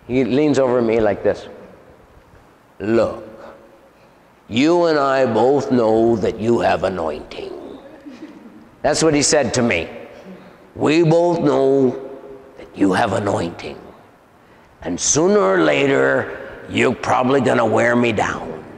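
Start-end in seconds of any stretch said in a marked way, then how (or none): 2.8-7.5 lightly voiced demon, slow and reasoning; a hint of the deep demon, drawn out; deep man's voice. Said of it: "in a deep man's voice". 10.7-18.6 lightly voiced demon, confiding; a hint of a bargaining demon in a man's voice; deep man's voice. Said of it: "in a deep man's voice".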